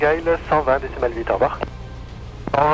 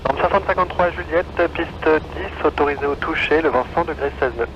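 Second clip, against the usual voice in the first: tinny controller voice; over a radio. Real, not acted. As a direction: heard through the headset. Tower landing clearance over radio.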